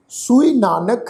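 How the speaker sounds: ਸੂਈ said slowly with a clear u vowel, rising; careful pronunciation. Shown as a demonstration. Teacher showing the congregation how to say ਸੂਈ, slow and clear. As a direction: spell out ਸੂਈ with the u sound, not o. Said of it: "ਇਸ ਦਾ ਉਚਾਰਨ ਹੋਏਗਾ ਸੂਈ".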